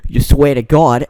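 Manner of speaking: loud mock-menacing Boston accent. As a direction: throw it back in a bad Boston accent. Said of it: "everyone in there has, like, a Boston accent".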